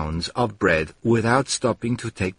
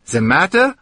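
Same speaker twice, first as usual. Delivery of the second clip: incredulous echo; 7 semitones higher, 4 dB louder than usual. Acted. Exasperated echo.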